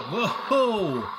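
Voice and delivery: loud startled yelp at a sudden bang; startled whoa. Acted. Host startled by an explosion sound in the quiz, loud startled whoa. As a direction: jump as if the noise nearly knocked you over.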